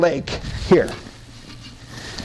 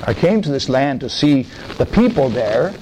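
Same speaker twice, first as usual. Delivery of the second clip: calm Jesus; 3 semitones lower than usual. Acted. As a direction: speak as a patient Jesus. Preacher plays Jesus.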